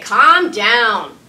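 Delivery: the impatient parent; sharp order. Shown as a demonstration. Parent ordering an upset child, sharp and loud. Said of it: "instead of saying".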